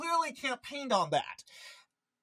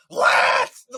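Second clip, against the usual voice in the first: mock wail; 12 dB louder than usual. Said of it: "screaming, wailing".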